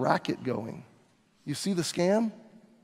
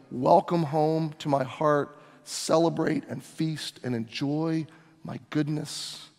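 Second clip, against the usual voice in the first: tender welcome; 3 semitones lower, 5 dB quieter, slower than usual. Acted. Pastor voices God welcoming worshipper.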